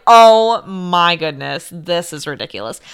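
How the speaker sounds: retold crying. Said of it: "So I was crying at this point".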